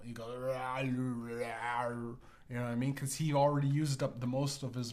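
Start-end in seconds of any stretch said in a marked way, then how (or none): 0.4-1.9 long, slurred wordless growl; unintelligible mumble-growl. Acted. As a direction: garble it into drawn-out noise. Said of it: "he runs something unaudible".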